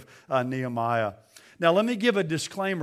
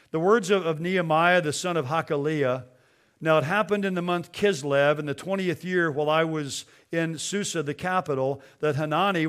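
scripture reading. Acted. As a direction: read the passage with gravity. Reads scripture aloud.

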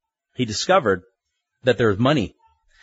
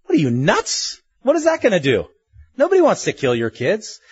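incredulous; 5 semitones higher than usual. Real, not acted. Preacher mocks Reuben's offer.

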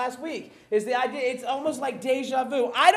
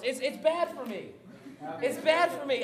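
laughing confession; 2 semitones higher than usual. Real, not acted. Laughing about Pop-Tarts.

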